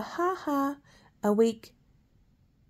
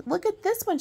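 delighted cry, pitched higher; exclaiming; 9 semitones higher than usual. Acted. Mrs Claus showing the elves a funny drawing, high delighted exclaim. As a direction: show it off with glee. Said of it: "she exclaimed".

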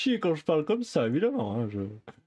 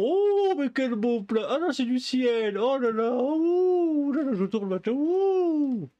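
mock awe; 5 semitones higher, slower than usual.

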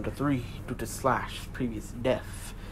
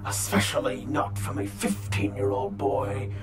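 a Spartan god mocking his foe; booming god voice; 3 semitones lower than usual. Kratos scorns the boy.

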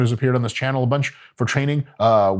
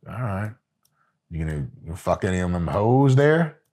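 Robin fishing for gossip; 6 semitones lower, 3 dB quieter than usual. Retold or imitated. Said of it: "I don't know if they're like".

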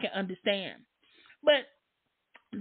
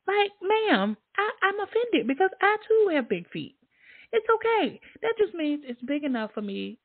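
high prissy voice, pitched way up; mock polite lady; 10 semitones higher than usual. Talking back to a hater, high prissy mock lady. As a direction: play an offended lady all pearl-clutching.

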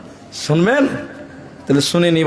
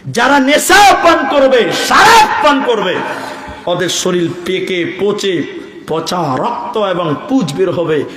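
fiery preaching; slower than usual. Acted. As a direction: thunder the warning at the crowd. Preaching hellfire warning.

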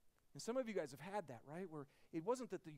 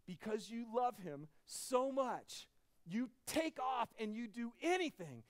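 impassioned preaching; 6 semitones higher, 7 dB louder, slower than usual. Real, not acted. Preaching climax on love.

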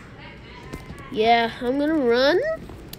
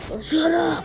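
shouted shut up; 4 semitones higher than usual. Real, not acted.

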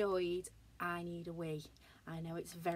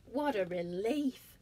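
relieved; 2 semitones higher, 6 dB louder, slower than usual. Acted. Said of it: "said Robot, smiling".

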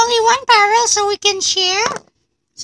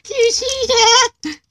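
excited, slow; 3 semitones higher, slower than usual. Real, not acted. Car drives.

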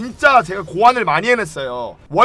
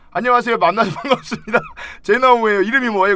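mock scammer greeting; 3 semitones higher, faster than usual. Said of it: "조선족 보이스피싱범이네".

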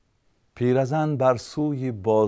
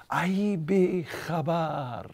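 higher, slow, otherworldly call; voice of God; 8 semitones higher, much slower than usual. Acted. God calling to the old woman in her dream, slow and lofty. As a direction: stretch each word out like a voice from above. Third take of God's rebuke.

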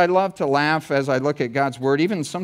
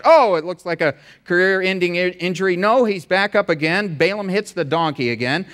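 sports play-by-play. Shown as a demonstration. Preacher hams up a sports commentary on the story. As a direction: call Balaam's ride like a live game. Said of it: "I'll give you kind of a play-by-play".

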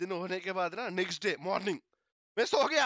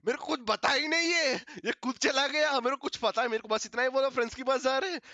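mimicking scared mother; 3 semitones higher, 3 dB louder than usual. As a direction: babble it out like a frightened mum. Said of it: "mummy डर के और कुछ भी बोल रहे".

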